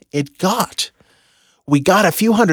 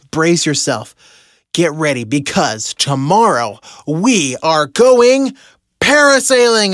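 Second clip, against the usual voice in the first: corny grand announcement. Retold or imitated. Husband revealing parasailing to Heather, hammed-up announcer build. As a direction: play the cheesy reveal, landing hard on the last word. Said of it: "turned it into a really corny ceremony".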